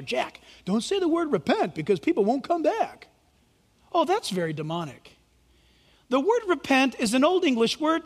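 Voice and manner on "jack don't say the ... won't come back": lightly voiced mock Satan; Satan whispering. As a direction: coax like the devil at his ear. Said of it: "Satan whispers in my ear".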